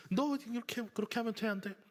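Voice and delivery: a mother scolding her kid while holding a knife, played lightly; mock scolding mother. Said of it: "무섭게 칼을 들고". (칼 들고 아이를 혼내는 엄마 흉내, 높고 날카롭게)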